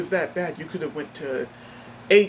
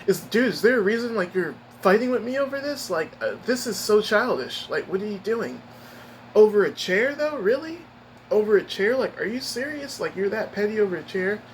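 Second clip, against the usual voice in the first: pitched-up disbelief, rising on each "chair"; can't believe the pettiness, pitch climbing high; incredulous retort; 4 semitones higher than usual. Retold or imitated. Retelling his reply to the coworker, high incredulous disbelief. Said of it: "I'm like".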